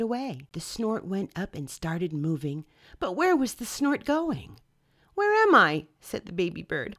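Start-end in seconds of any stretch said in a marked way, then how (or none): 5.1-5.9 high, loud frightened call; frightened cry. Acted. Baby bird lifted away, crying out high and loud. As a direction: cry out lost in the air.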